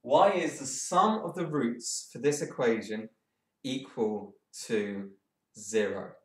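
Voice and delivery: slow, drawn-out words while thinking; slow, stalling. Real, not acted. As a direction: stretch the words out to buy time. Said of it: "I'm talking slowly because I'm stalling".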